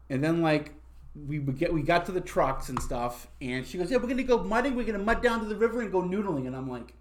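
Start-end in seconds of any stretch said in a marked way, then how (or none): 3.9-6.5 put-on high, bubbly country girl; lightly voiced excited Southern girl.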